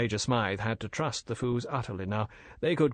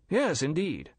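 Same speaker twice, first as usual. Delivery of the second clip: a forced, slightly higher eager reply; brave show of enthusiasm; 5 semitones higher than usual. Acted. Major feigning enthusiasm to the Fu brothers. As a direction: fake some cheer over the worry. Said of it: "with a brave show of enthusiasm".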